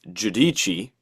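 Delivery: "Giudici" as joo-DEE-chee; Italian pronunciation. Shown as a demonstration. Co-host showing host the looked-up name, careful Italian pronunciation. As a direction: say "Giudici" slowly, ending in chee. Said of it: "So it is pronounced".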